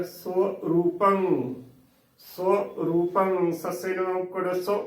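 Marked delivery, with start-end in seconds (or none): 0.0-3.5 ਸੋ ਰੂਪੰ with a short "so", slowly; ਸੋ ਰੂਪੰ slow, ending on a nasal "ang"; correct pronunciation demo. Shown as a demonstration. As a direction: say ਸੋ ਰੂਪੰ as "so-roopang", drawn out. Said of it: "ਇਸ ਦਾ ਇਸ ਤਰ੍ਹਾਂ ਉਚਾਰਨ ਕਰਨਾ ਹੈ".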